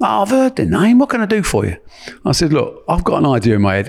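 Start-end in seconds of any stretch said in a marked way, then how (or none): 0.0-1.8 squeaky, very high, swooping voice. Retelling a phone call to Australia, you give his answer in a squeaky, very high-pitched Joe Bugner voice. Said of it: "Joe Bugner had a very high pitched".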